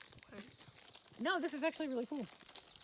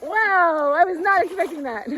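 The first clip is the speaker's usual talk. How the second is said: loud, high thrilled exclaim; excited; 7 semitones higher, 16 dB louder than usual. Real, not acted. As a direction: gasp it out, buzzing. Reacting after the plunge.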